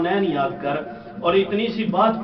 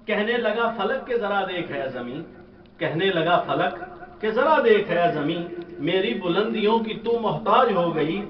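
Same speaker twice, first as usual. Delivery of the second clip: measured recital of verse for a gathering; poem recitation; 2 semitones higher than usual. Acted. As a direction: recite the couplet, lingering on key words. Recites couplets to audience.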